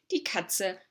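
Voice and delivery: slow, clear example sentence; slow model sentence. Shown as a demonstration. Teacher modelling the German sentence slowly. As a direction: spell out each word slowly. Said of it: "So we could say".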